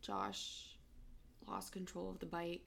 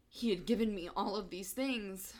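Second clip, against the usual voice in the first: real grief surging louder through held-back tears; fighting back tears; 2 semitones higher, 7 dB louder than usual. Real, not acted. Sister listing what her brother gave her, fighting back tears. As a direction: push the words out while trying not to cry. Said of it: "trying really hard not to cry".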